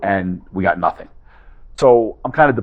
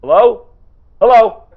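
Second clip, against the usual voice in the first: calling into a dead line, each Hello higher and louder; hung up on; 12 semitones higher, 7 dB louder than usual. Shown as a demonstration. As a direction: realize the caller hung up, rising panic. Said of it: "that didn't go too well".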